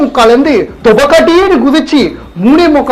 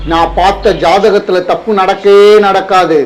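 insistent shout; 3 semitones lower than usual. Acted. Astrologer insists he is right.

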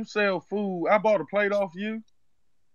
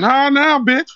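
put-on louder, indignant Zeke accent; mock angry Zeke; 4 semitones higher, 9 dB louder, slower than usual. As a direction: snap back in the borrowed accent. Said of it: "why is he talking like Zeke off power".

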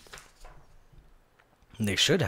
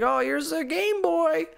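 grandma voice; 11 semitones higher, slower than usual. Retold or imitated. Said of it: "your grandma gets you".

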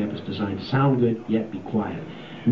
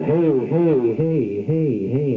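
dry and distorted mix; 3 semitones higher, 3 dB louder, much slower than usual. Shown as a demonstration. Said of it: "the dry sound with the distorted sound".

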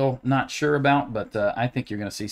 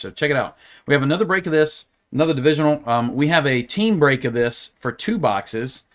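super animated voice. Acted. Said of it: "super animated voice".

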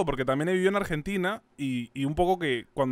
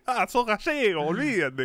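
put-on higher-pitched Buenos Aires accent, dropping at the end; Argentine accent; 5 semitones higher, slower than usual. Expat imitating locals in Buenos Aires, Argentine accent. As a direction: imitate an Argentine teasing a Spaniard. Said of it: "aprendes a hablar como argentino".

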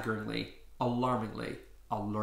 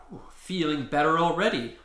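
beaming; 4 semitones higher, 4 dB louder than usual. Acted. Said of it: "Octo beamed".

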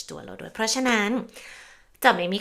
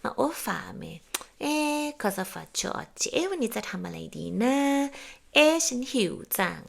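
self-questioning; 6 semitones higher, slower than usual. Retold or imitated. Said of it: "ตั้งคำถามกับตัวเองไปด้วย".

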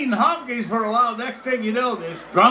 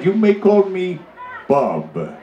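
very low chief introducing himself; deep chief voice; 5 semitones lower, slower than usual. Acted. Chief telling the missionary his name, very deep. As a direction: drop way down for the punchline name.

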